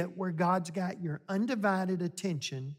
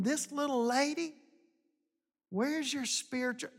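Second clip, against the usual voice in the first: mock scolding; 3 semitones higher than usual. Mock harsh God scolding Elijah.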